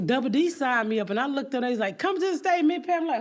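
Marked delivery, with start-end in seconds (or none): 2.0-3.0 high-pitched mock announcer call; imitated stage call. Host calling Big Pat to the stage, imitated announcement. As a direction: call a performer up in a raised voice.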